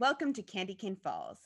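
plain

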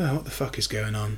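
muttered quietly under the breath. Recapping a rant scene, quoting its first line: muttered under his breath. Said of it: "he says under his breath".

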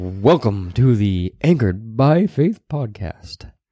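enthusiastic, big-hype wrestling ring announcer voice. Suggesting a new podcast intro for a co-host, in a WWE announcer voice.

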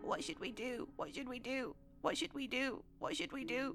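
very soft, hushed, barely audible, repeated voice. Game master voicing a voice the players overhear from a room: very soft voice. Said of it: "you can hear a very soft voice".

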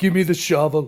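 put-on Austrian accent, action-hero voice. Acting out a scene of Arnold Schwarzenegger demanding a shovel: Arnold Schwarzenegger voice. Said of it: "Arnold Schwarzenegger walks up in a suit".

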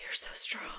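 quiet whispering. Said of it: "just whispering".

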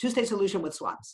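very fast, words run together as one. Repeating a phrase as said in the US, very fast, run together. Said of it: "You have to say it very fast and it's all one word".

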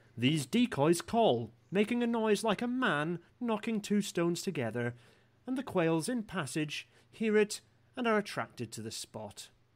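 acted old-fashioned Victorian voice. Reading an old passage aloud to a listener, in your best Victorian voice. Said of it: "in my best Victorian voice".

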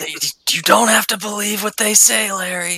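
high-pitched shouting. Calling across to a character who slipped, shouting. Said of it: "I shout at him".

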